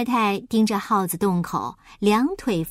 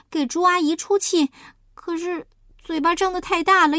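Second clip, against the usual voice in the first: higher-pitched sheepish confession; apologetic; 5 semitones higher than usual. Acted. Huahua explains the three-day absence, apologetic. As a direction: explain yourself, sorry and a little embarrassed. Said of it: "他很抱歉地说".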